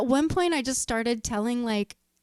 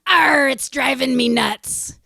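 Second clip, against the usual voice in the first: slow, louder pirate punchline; 7 dB louder, slower than usual. Retold or imitated. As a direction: growl the Arr like a pirate. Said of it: "And the pirate says".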